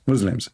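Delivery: "Muslims" with a buzzing z; mocking mispronunciation. Mocking the caller for insulting the faith, "Muslims" said with a z. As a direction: say "Muslims" as "Muzlims". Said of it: "Muslim, which means dark".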